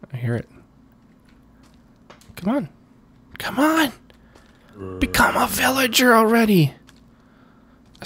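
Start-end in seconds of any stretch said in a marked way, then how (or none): 2.4-6.7 impatient urging. Real, not acted. Urging villager to be cured.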